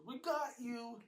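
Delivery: high, loud triumphant; spring the prank; gleeful reveal. Acted. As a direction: James revealing the hoax.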